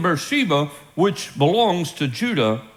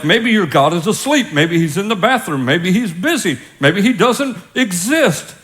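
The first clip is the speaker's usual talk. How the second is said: mocking taunt; 3 semitones higher than usual. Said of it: "He starts mocking them".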